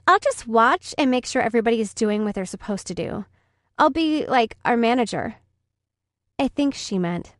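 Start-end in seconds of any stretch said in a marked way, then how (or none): 0.1-5.3 a hint of a bossy schoolgirl; bratty girl voice. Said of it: "or as she put it".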